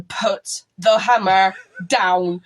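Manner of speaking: stern command. Retold or imitated. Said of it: "point at me going".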